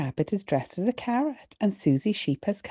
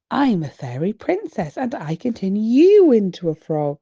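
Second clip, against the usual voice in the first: louder, huffy retort; a child crying out in protest; indignant cry; 3 semitones higher, 7 dB louder than usual. A narrator's reading. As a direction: shout it back, offended. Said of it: "cries Peppa".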